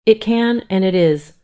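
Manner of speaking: high, loud, cold firmness; cold triumph. Acted. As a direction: assert it with triumph. Wife coldly asserts.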